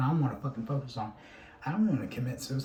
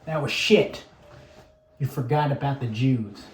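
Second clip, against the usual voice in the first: a louder barked drill sergeant put-down; 6 dB louder than usual. Retold or imitated. Drill sergeant to recruit after target practice, loud barking. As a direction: bark the verdict like a drill instructor. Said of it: "the drill sergeant is like".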